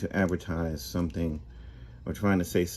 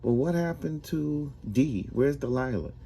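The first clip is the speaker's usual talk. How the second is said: higher, a touch tearful; mild weepy plea; 7 semitones higher than usual. Acted. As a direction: ask it through light tears. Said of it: "he starts to weep".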